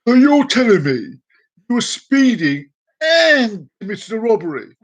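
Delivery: high, loud mock disbelief; shocked cop. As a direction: repeat it back loudly, high with shock. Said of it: "Look shocked".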